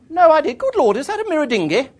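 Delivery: booming countrywoman impression; English countrywoman. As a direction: exclaim like a formidable country lady. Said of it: "archetypal English countrywoman".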